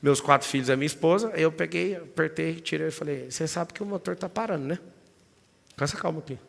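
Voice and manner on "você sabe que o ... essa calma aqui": much softer, calm warning; lowered calm voice. Retold or imitated. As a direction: keep it calm so the family cannot hear. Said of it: "até a voz eu baixei". (voz baixa e calma)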